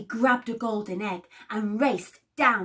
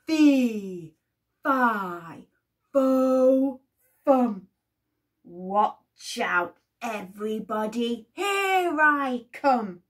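loud booming giant chant; giant roaring; 6 dB louder, slower than usual. Acted. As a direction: stomp it out as the giant. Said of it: "roared the giant".

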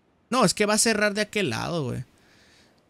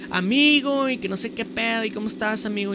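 imitating her tone; 4 semitones higher than usual. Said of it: "siempre me hablaba así en ese tono".

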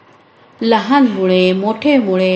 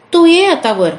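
higher, louder call downward; 7 semitones higher, 4 dB louder than usual. Acted. Animals call the mouse to come back up, raised call. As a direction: shout down the hole to the mouse.

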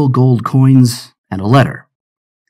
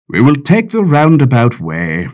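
order; 4 semitones higher than usual. Acted. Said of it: "he ordered".

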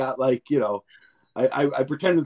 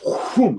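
sword swoosh; 6 semitones higher than usual. Retold or imitated. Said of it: "takes a sword and goes".

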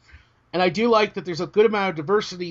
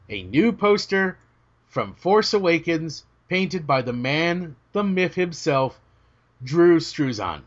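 grand slow announcement; slower than usual. Acted.

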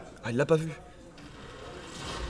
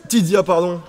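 shout; 4 semitones higher, 6 dB louder than usual. Real, not acted. Caster shouts player's name.

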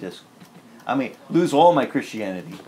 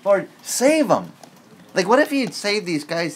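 slow, higher, louder "save 'em"; mock-gracious prayer; 8 semitones higher, 5 dB louder than usual. Preacher imitating a generous prayer for enemies, mock-gracious. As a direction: stretch it out, playing the generous saint. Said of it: "if I was praying like you".

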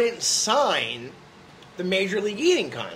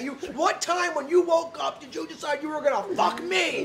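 higher, incredulous mock accusation; high-pitched, half-laughing lunatic accusation; crazy accusation; 8 semitones higher than usual. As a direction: hurl the question like a betrayed fan. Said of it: "This is how crazy".

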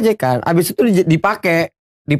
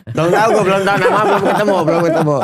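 laughing; 3 semitones higher, faster than usual. Real, not acted. Laughing while admitting no name.

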